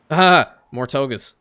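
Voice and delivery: exasperated groan. Real, not acted. More togas arrive.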